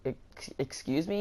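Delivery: slow, stammered mock disbelief; imitating an affronted manager, understated; retold indignation. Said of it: "getting, like, really pissed off at this lady".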